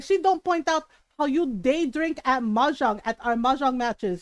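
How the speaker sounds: imitating a mildly indignant Filipino mom; a touch of accusing sass, in accent; mom calling out. Mom exposing the tita's day drinking, calling her out. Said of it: "my mom called her out".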